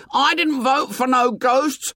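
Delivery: very high, piercing protest; shrill it out in indignant protest. A narrator's reading. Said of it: "Piggy's voice shrilled".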